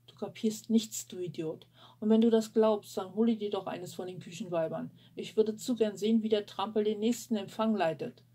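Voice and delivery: loud, scornful outburst; angry outburst. Acted. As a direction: snap back at him in anger. Gloria shouts back at Luke.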